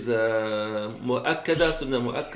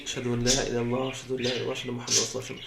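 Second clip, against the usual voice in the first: fast, soft murmured shahada; soft repeat of the tarjih; 3 semitones lower, 5 dB quieter, much faster than usual. Shown as a demonstration. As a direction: say it quietly to yourself. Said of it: "in a very lo-, soft voice".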